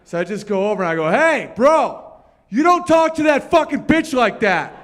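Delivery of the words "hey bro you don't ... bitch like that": put-on high, loud drunken tough-guy call; tough confrontation. Drunk comedian telling off a meathead, loud confrontation. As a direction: step in and call him out, loud.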